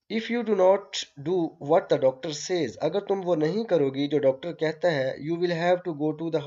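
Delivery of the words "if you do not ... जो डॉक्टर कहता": lightly voiced severe warning to a child; mock stern scolding. Mother warns her sick daughter, a touch of stern scolding. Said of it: "The mother admonished her severely".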